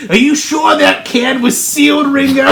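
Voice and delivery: put-on jokey pop-band-style British accent. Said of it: "like a British accent".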